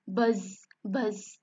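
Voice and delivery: spoken imitation of bees; bees buzzing. Bees scaring the guards away, buzzing. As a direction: buzz like the bees. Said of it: "They make the sound".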